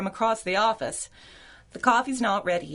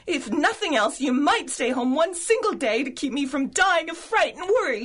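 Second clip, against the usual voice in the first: worried pleading; 5 semitones higher than usual. Acted.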